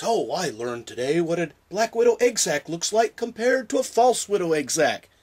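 lightly snooty intellectual tone; a hint of a snooty know-it-all. Shown as a demonstration. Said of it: "talk in a snooty voice like this".

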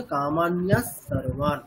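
"কামান্যা সর্বান" said slowly with the s joined across; slow, the visarga becoming s; joined reading. Shown as a demonstration. Teacher showing the joined reading. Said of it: "যুক্ত করে পাঠ করলে তাহলে কেমন হবে?".

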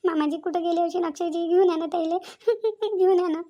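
sobbing pleas to bring her son home; tearful begging, voice catching; crying. Acted. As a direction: cry out the words between sobs. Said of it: "बेटा, रडू नको".

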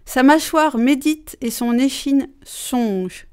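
déclamer avec emphase, vers par vers; déclamation de poème. Shown as a demonstration. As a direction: lecture solennelle d'un poème. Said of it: "je vais déclamer un petit poème". (poème déclamé avec solennité)

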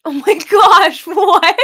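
loud, high gasp of disbelief; stunned. Real, not acted. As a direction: blurt it out in happy shock. Stunned by donation total.

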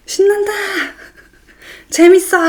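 put-on high, loud, childlike cheer of the hair; gleeful hair voice. Hair strands cheering as she styles them, high and loud. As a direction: squeal it like a giddy kid.

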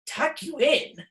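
high, slow indignant bellow; captain bellowing in disbelief. A narrator's reading. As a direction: scoff at the very idea. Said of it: "he bellowed".

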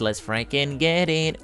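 slow, quiet, drawn-out mutter to himself; quiet, slow hype. Real, not acted. To himself before the big pot, slow quiet hype.

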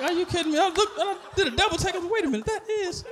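stunned double take. Retold or imitated.

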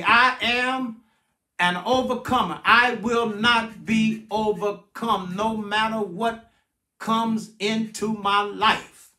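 measured, deliberate declaration to be repeated; slow call-and-response. Shown as a demonstration. Pastor leading the congregation to repeat after him, slow and deliberate. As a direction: spell it out phrase by phrase, slowly. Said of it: "repeat after me".

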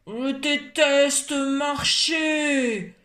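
slow, drawn-out whiny complaint; grumbling. Acted. Odile whining on the walk, sulky grumble. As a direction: drag the words like a sulking child. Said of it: "ronchonnait-elle".

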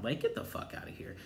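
breathy under-the-breath scoff; whispered dismissal. Real, not acted. Dismissing Sheree's scheme, whispered. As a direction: mutter it just to yourself.

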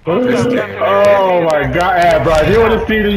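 high-pitched, drawn-out excited exclamation. Real, not acted. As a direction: still buzzing from the play, voice up high. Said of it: "as excited as I was right now".

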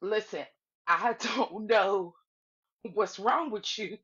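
imitating his measured, slowed-down patience; really calm. Slim trying to settle her down, really calm. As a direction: spell it out slowly, keeping your cool. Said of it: "really calm and was just like".

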